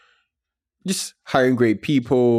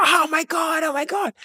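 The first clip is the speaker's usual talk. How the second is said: high-pitched mock squeal of amazement; ecstatic disbelief. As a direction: imitate a friend squealing at sudden riches. Voicing partner seeing the money land.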